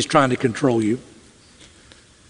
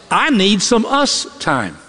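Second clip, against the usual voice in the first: pleading wife; 3 semitones higher, slower than usual. Retold or imitated. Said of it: "What she really meant was".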